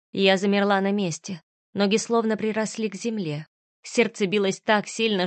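plain reading voice

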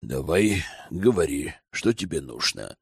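low, soft, grudging consent; reluctant. A narrator's reading. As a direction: give in unwillingly, voice sinking. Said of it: "неохотно согласился Радомир". (неохотно, низко и тихо)

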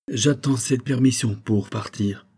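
slow, carefully steadied voice; slow, held-back calm; forced calm. Acted. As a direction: keep it calm though shaken inside. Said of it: "d'une voix qu'il tâcha de rendre calme".

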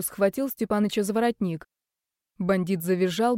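ordinary delivery, nothing marked

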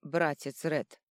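slow, loud tipsy toast with hiccup; drunken shout. Acted. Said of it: "вскричал Дрюня".

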